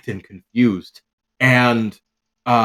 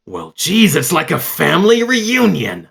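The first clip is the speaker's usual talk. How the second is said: higher, louder, dry joking remark; wry Garrow; 9 semitones higher, 8 dB louder than usual. Acted. Garrow joking to Shay about the family reunion, louder and wry. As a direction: quip it with a smirk. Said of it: "Shay, and goes".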